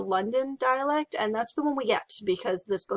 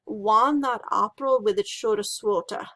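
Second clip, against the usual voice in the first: Chaucer's Middle English, vowels said far back; Middle English reading. Shown as a demonstration. Teacher reads Chaucer's first line in Middle English. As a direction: read it like Chaucer, "Wan" and "swota" said open and back. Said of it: "you would have read this first line like this".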